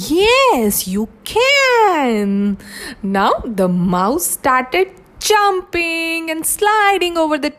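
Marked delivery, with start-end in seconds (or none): 0.1-2.4 generous lion. Acted. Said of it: "Lion says".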